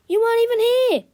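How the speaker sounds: high, loud and protesting; indignant high kid voice. Acted. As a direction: squeak it out in disbelief. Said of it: "said George".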